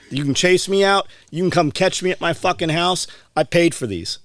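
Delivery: heated retelling, punching the swear words; retold defiant anger. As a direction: dare them to come after you. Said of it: "You were so mad".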